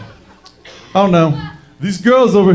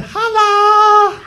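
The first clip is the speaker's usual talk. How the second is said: high, loud hype yell; holla shout; 4 dB louder than usual. Acted. Comic calling to his dogs in the house, loud high yell.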